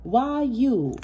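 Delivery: high, drawn-out incredulous "Empress?"; mock disbelief. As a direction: ask it like a jealous hater would. Mock-jealous asking about the card.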